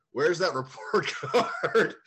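demanding dad. Retold or imitated. Dad confronting the teacher.

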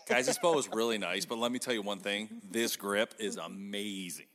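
hyped product pitch, stretched on amazing; practicing a promo. Shown as a demonstration. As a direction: sell it hard, drawing out the praise. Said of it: "let me, let me practice".

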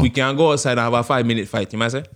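playful Jamaican threat; Jamaican man voice. Pretend. Man challenging someone to a fight, Jamaican accent. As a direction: offer a fight in Jamaican patois. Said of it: "my Jamaican man voice".

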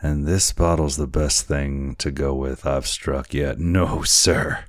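lightly voiced tipsy boatswain; a hint of boozy swagger; drunken sailor. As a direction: say it like a stubborn drunk. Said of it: "how drunken it appeared".

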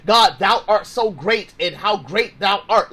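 a touch of sing-song churchy recitation; mock King James prayer. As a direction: lightly imitate old-time formal praying. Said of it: "caught up in the King James version".

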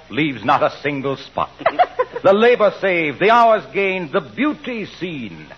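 grand theatrical ad recitation; hammy stage actor. Acted. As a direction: overblown Shakespearean pitch. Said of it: "the biggest ham I've seen".

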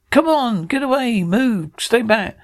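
high, frantic yelling to clear the stage; panicked shouting. Acted. The host yells at the crowd to get back from the gunman, panicked shouting.

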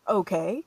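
"Okay" with a rising question tone. Retold or imitated. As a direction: lift the end of "Okay" as if asking. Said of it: "question mark?".

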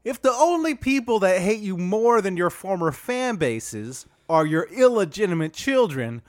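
Dwight Howard voice. Acted. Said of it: "can we dial that accent up a little".

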